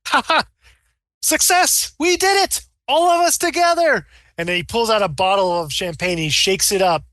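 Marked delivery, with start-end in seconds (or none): 0.1-4.1 high, exultant victory cry; triumphant cheer. Acted. Scientist cheering his team's success, high and triumphant. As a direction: celebrate the breakthrough, pitched way up. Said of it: "he says".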